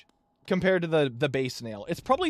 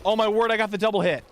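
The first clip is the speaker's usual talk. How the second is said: excited; 4 semitones higher, 5 dB louder, much faster than usual. Real, not acted. Lucky hit during speedrun.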